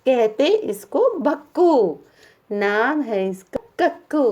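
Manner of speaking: poem recitation. Shown as a demonstration. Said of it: "इसलिए तो कभी-कभी हम".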